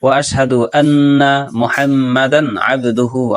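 slow careful Arabic recitation. Shown as a demonstration. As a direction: recite each word clearly. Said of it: "সঠিকভাবে সহি শুদ্ধ করে". (ধীরে শুদ্ধ তিলাওয়াত)

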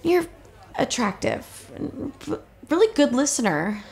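halting, awkward confession; nervous. Acted. Flustered dater admitting attraction to her date, nervous. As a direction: stumble through it, voice dipping soft on the asides. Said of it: "you make me really nervous".

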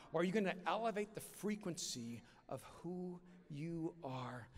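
slow, earnest preaching climax; slow sermon close. Acted. Preacher urging the audience in a slow, earnest close. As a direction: lean in and plead slowly with the crowd.

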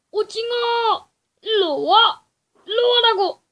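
loud, high taunting shouts; calling out loud. Real, not acted. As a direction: dare the monster to come. Taunting the octopus to come. (큰 소리로 도발하며)

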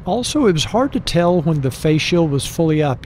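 muffled through helmet chin bar; inside a motorcycle helmet. Real, not acted. Seen 4: Full-face helmet worn throughout; a buff under the chin bar is unclear.

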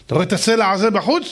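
mock royal vow, rising and rushing; angry king's oath. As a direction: threaten your son like a furious king. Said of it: "המלך אמר".

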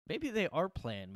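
high, loud and slow, drawn out; conspiratorial realisation; sudden suspicion. Real, not acted. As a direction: dawn on it with mock shock.

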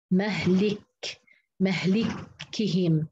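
slow, drawn-out مهلكهم with an i after the ل; fatha-kasra reading. Shown as a demonstration. Teacher showing Hafs's reading to a student, slowly sounded out. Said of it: "انفرد حفص بفتح الميم وكسر اللام".

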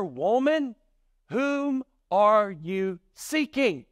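lightly voiced angel, slow and high; angel's question. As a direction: ask it high and slowly, word by word. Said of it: "one of the angels asked her".

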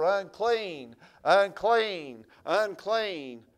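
loud calling out unclean; hollered warning. Retold or imitated. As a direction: call it out across the road like a leper. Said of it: "they'd have to holler".

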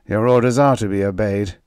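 mock agreement with contempt; Renzo voice. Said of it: "He appeared more calm now".

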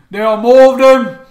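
loud, high Cockney British orc yell; Cockney orc shout. Acted. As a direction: belt it out in full Cockney British. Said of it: "Cockney British accent".

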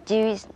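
"juice" as one English word with a voiced J. Shown as a demonstration. Co-teacher models the word for viewers, English juice. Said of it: "มันก็คือ juice".

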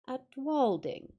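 slow, musing echo of the place name; thoughtful echo. Acted. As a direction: turn the name over slowly in your mind. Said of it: "he echoed thoughtfully".

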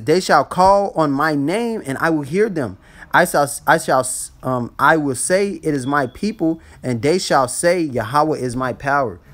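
slow, emphatic Bible reading; measured scripture recital with drawn-out phrases. Acted. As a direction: read the verse out slowly and deliberately. Reads scripture aloud to listeners.

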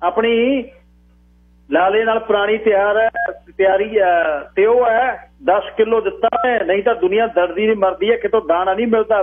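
high, boastful elder's voice; high-pitched, puffed-up pride; self-important old man. A narrator's reading. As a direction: brag as if you had friends at the very top. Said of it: "ਬਾਬੇ ਨੇ ਅੱਖਾਂ ਚੜਾ ਕੇ ਗੱਲ ਕੀਤੀ ਜਿਵੇਂ".

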